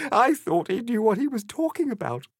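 high-pitched tearful wail; storybook heroine in tears; sobbing. A narrator's reading. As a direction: wail it out as an acted sob. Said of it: "she sobbed".

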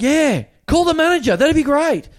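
high, loud sarcastic chirp; fake-cheerful mockery. Gym member sarcastically telling the staffer to call the manager.

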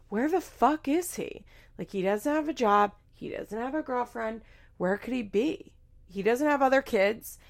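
acted-out incredulous questioning; exasperated retold rant. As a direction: imitate a fed-up friend demanding answers. Acting out Macy's indignant rant.

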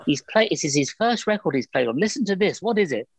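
high, eager voice hushing the room; excited mum and aunt. Retold or imitated. Mum hushing her tea guests to hear her son's record, high and excited. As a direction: shush everyone like a proud mum before the record plays. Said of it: "And they said".

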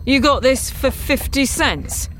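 incredulous. A narrator's reading. Captain doubts the bargain.

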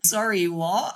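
high startled stall; flustered what. Retold or imitated. Imitating Ash caught out by Sonia, high and startled. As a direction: act caught off guard. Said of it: "And Ash was like".

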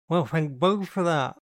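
talking through yogurt; words round a spoonful; mouth full. A narrator's reading. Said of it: "with a mouthful of yogurt".

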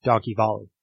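put-on a clipped English accent on "Donkey Volley". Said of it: "getting confirmation on the accent here".

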